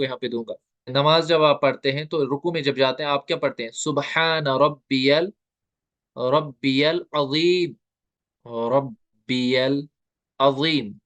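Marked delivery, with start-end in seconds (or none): 3.7-10.9 सुबहान रब्बियल अजीम drawn out in recitation; recited slowly. Shown as a demonstration. Teacher slowly reciting रब्बियल अजीम to students. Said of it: "ये जा है".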